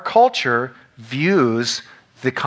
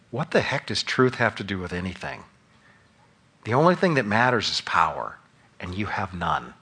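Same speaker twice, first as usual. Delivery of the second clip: a lightly voiced scornful Pilate, lower and softer; Pilate played out; 3 semitones lower, 4 dB quieter than usual. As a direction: sneer it quietly like a governor mocking a prisoner. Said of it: "let me play it out for you".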